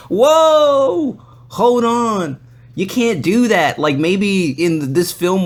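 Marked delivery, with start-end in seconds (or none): 0.1-3.8 much higher, louder startled protest; startled whoa. Retold or imitated. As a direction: pull back fast, whoa then hold on. Makeup artist grabbing his face.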